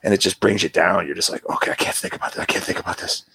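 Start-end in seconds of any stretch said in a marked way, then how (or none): 1.5-3.2 hushed, whispered and overwhelmed; whispered self-talk. Retold or imitated. Overwhelmed by thoughts of his family, whispering to himself. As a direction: murmur it to shut the thought out.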